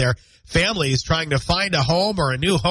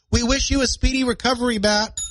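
higher, mock well-wishers in unison; audience chorus; 8 semitones higher than usual. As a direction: play the listeners dutifully wishing him better. Voices audience wishing him well.

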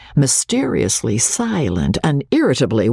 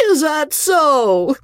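slow, higher drawl rising in surprise; surprised drawl; 14 semitones higher, slower than usual. A narrator's reading. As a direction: let the drawl lift in wonder. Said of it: "with an element of surprise in it now".

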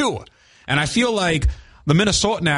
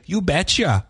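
a lilting Minnesotan catchphrase, pitched up; Minnesota accent; 4 semitones higher than usual. Acted. Quoting how Minnesotans talk to listeners, Minnesota accent. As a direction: quote it with a local Minnesota twang. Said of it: "the way people say".

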